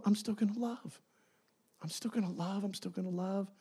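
soft, fading loving repetition; tender repetition. Acted. God softly insisting on loving those who leave. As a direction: let it fade gently each time. God's love for deserters.

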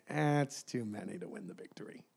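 low, soft voice of God; lightly voiced God. Preacher voicing God to Gideon, low and soft.

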